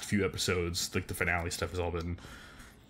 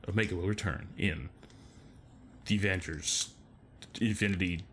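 bad Kiwi accent trailer voice; hammy New Zealand accent; 3 semitones lower, 5 dB quieter than usual. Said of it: "my bad Kiwi accent".

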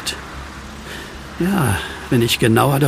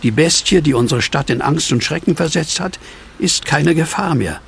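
reading aloud; 3 semitones higher than usual. Acted. Reads newspaper headline aloud.

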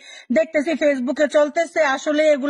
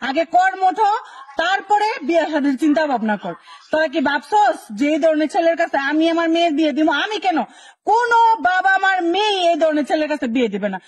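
put-on raised, lecturing scold at idle boys; scolding lecture; 2 semitones higher than usual. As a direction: tell them off like a fed-up elder. Scolding lazy unemployed young men. (রাগী গলায় বকাঝকা)

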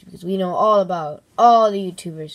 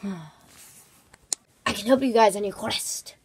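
mysterious slow voice; 5 dB quieter, slower than usual. Acted. Mysterious helper offers aid.

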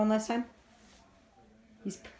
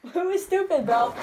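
higher, laughing question; 7 semitones higher than usual. Real, not acted. Teasing the friend, still laughing. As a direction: laugh through it.

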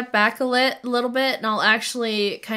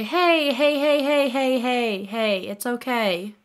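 gentle soothing; 3 semitones higher, slower than usual. Acted. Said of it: "gently touch his shoulders and say".

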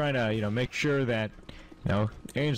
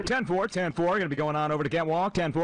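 police radio; faster than usual. Pretend. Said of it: "do all your radio and call outs like that".

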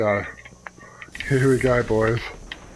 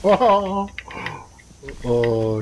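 helpless laughter, can't stop; laughing. Real, not acted. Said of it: "I can't stop laughing".

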